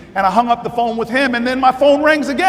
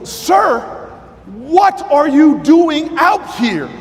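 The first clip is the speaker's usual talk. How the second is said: sir pitched high, then a slow raised call; retold yell; 3 semitones higher, much slower than usual. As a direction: call out sharply and slowly to the old man. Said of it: "but I yell at this man".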